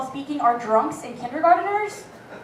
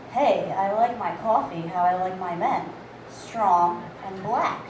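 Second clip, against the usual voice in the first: low, slow seductive purr; mock-sexy low flirt line; sultry flirt; 8 semitones lower, 4 dB quieter, slower than usual. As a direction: lay it on thick, dropping the voice. Friend flirting with barista.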